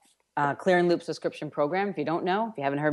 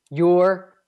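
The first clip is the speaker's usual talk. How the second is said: roared word; 4 semitones higher, 9 dB louder than usual. Shown as a demonstration. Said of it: "What is your roar? Roar it".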